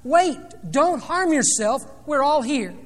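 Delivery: loud, high urgent call, drawn out; retold scream. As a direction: cry out a warning as a preacher retelling it. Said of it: "Paul screams out".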